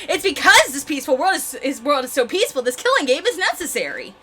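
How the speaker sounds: animated character voice explaining eagerly; insistent game villain. Acted. Villain explaining why the killing game is necessary, animated and insistent. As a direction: make the case like a showy villain.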